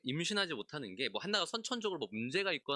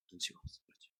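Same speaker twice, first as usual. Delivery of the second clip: whisper; 9 dB quieter, faster than usual. Real, not acted. Preacher's aside about Elkanah.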